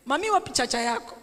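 imitating a child's Kisii accent; quick Kisii-accented child's question, "chacha" for charger; lightly mimicked son with Kisii accent; Sokoro. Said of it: "Sokoro pronounces charger as chacha".

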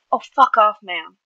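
loud first burst, dropping off; spat. A narrator's reading. Vigilante startled by the villain, spat. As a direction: hit the curse hard, then drop. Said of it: "Tommy spat".

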